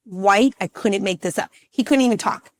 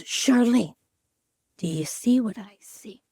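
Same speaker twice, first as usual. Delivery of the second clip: hushed doctor. Retold or imitated. Retelling doctor at the ultrasound.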